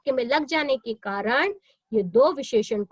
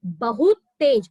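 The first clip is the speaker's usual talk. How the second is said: बहुत तेज said louder, बहुत held; stress on बहुत; 6 dB louder, slower than usual. Shown as a demonstration. Teacher answering her own question for students, stressing बहुत. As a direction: punch बहुत, then तेज. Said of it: "क्या लग गया?".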